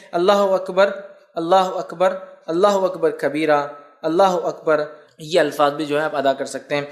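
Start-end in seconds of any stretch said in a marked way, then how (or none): 0.1-4.8 measured, devout chanting of the takbir; takbir recitation. Shown as a demonstration. Teacher showing listeners the Eid takbir, devout chant. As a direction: recite each Allahu akbar steadily, as in the mosque. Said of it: "اس میں یہ ہے".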